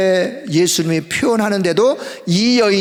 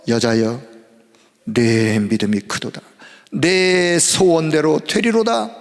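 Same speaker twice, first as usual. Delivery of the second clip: voicing Jesus; 2 semitones lower, slower than usual. Jesus answers the Canaanite woman.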